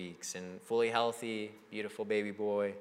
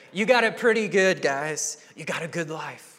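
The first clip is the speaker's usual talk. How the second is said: Paul scolding; 6 semitones higher, 8 dB louder than usual. Retold or imitated. Paul answering the complainers.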